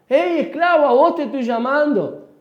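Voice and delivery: insistent call. Pretend. Insiste gritándole al que sigue de largo.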